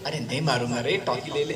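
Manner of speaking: put-on soft, sweet-talking old man; coaxing grandfather. Grandfather coaxes the boy with a sweet, softly. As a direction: lure the child in gently.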